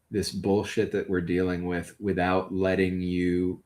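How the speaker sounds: low, measured love declaration; sincere, devoted partner. Acted. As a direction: tell them earnestly, with pauses to let it land. Plays a character declaring love.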